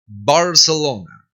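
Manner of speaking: "Barcelona" slow, b struck firmly; "Barcelona" drawn out with a clear b; full B. Shown as a demonstration. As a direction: model "Barcelona" for repetition, firm first syllable. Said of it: "bien pronunciada".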